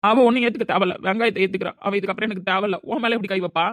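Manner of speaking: heated and outraged; angry rejection. Acted. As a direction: shut the friend's plea down angrily. Outraged for slapped friend.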